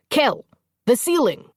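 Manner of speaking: pointing his sword as he calls; battle command; shouted command. A narrator's reading.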